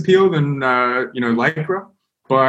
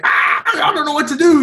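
mock panic. Panicked kids retold.

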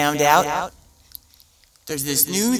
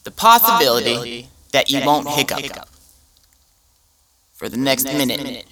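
mock commercial narrator. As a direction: sell it like a cheesy ad. Mock drug commercial pitch.

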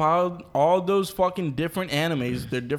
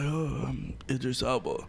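softer, hammed-up attempt at a British accent; bad British accent; 5 dB quieter than usual. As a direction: badly fake a British accent, understated. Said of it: "hit you with that British accent".

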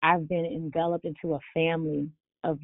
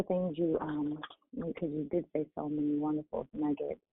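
muffled phone audio; sounding muffled through earbuds; 5 dB quieter than usual. Real, not acted. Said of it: "So you sound muffled".

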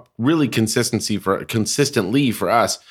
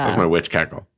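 witch cackle; 5 semitones lower than usual. Acted. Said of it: "that was really good".

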